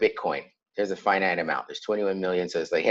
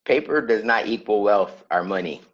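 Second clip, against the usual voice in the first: chewing gum. Real, not acted. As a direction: mouth working on gum. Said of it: "I just put a piece of gum in my mouth".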